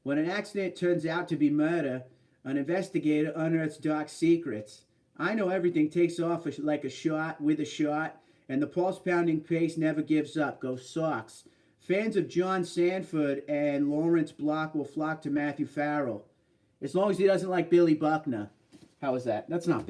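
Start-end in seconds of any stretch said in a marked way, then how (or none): 0.0-10.6 put-on hammy Boston-accented book blurb. Streamer reads book blurb for viewers, Boston accent. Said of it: "read this in the Boston accent". 10.6-18.5 put-on hammy Boston-accented book blurb. Streamer reads book blurb for viewers, Boston accent. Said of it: "read this in the Boston accent".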